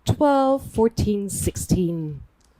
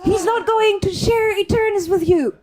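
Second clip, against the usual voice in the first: urgent in-character plea; 4 semitones higher than usual. Acted. Player urging NPC against Flynn.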